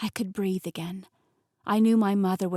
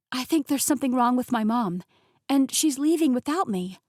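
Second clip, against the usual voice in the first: anxious rush; 3 semitones higher, 5 dB louder than usual. Acted. Anxious daughter rushing words.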